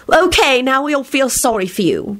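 put-on airy, high-pitched girl's reply. A narrator's reading. Rosie brushing off his apology, airy. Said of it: "Rosie replied airily".

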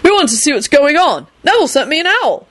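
high, chirpy newcomer; cheerful. A narrator's reading. George explains his arrival, cheerfully. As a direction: pitch it up, breezily. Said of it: "George said cheerfully".

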